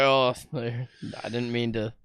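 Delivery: mock sheepish apology; guilty. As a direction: back down sheepishly. Feeling bad after being mean.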